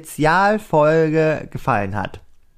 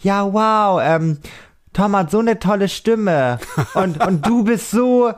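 gushing fan; 4 semitones higher, slower than usual. Retold or imitated. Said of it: "Alle haben immer".

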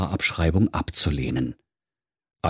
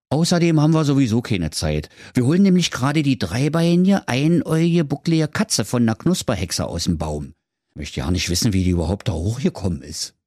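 quick, higher busy fireman; lightly voiced harried firefighter; 4 semitones higher than usual. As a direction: rattle off excuses like a hurried fireman. Firefighters keep talking.

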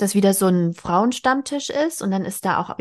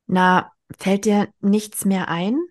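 sharp question; slower than usual. Acted. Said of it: "fragte sie scharf".

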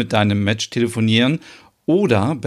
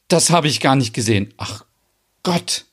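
verlegen; 2 semitones higher than usual. Acted. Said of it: "Merit wird rot".

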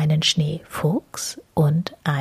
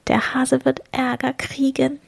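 raised little squirrel voice; 7 semitones higher than usual. A narrator's reading. Other squirrel foresees trouble for the hare, high squirrel voice. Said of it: "das andere meint".

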